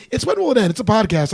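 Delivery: stuffy head cold voice. Real, not acted. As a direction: speak through a head cold. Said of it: "I have a head cold".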